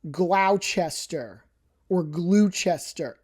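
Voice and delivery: Gloucester said as GLOW-chester, spelled out; mock outsider Gloucester; wrong Gloucester. Shown as a demonstration. Showing viewers how outsiders butcher Gloucester. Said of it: "It's not".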